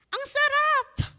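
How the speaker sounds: high, slow savoring exclaim; delighted father. Retold or imitated. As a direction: relish every syllable. (masarap na masarap)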